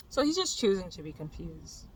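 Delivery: ordinary talk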